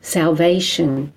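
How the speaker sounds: measured poem reading with deliberate pauses; poetry reading. Acted. Poet reads her own confessional poem to an audience, measured recital. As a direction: read it line by line, letting each phrase land.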